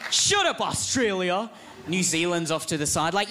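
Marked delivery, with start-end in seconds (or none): 0.1-1.5 snapping shout. Retold or imitated. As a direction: snap at him. America snapping at sidekick.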